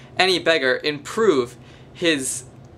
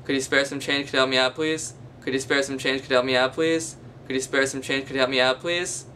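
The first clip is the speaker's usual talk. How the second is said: beggar's mumbled plea; 3 dB quieter than usual. Retold or imitated. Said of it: "Or it might sound like this".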